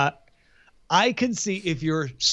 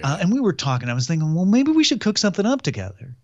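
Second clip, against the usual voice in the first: lightly put-on Playa Vista accent; a hint of a Playa Vista accent; 2 semitones lower than usual. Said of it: "why he talks with that accent".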